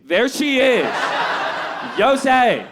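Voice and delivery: mock thrilled discovery; excited discovery. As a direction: blurt it out, thrilled to spot her. Spotting her at the bar.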